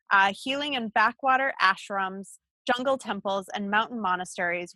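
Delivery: measured introduction read from a page; bio read-aloud. Real, not acted. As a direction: present the guest's credentials in even, listed phrases. Reads guest's bio aloud.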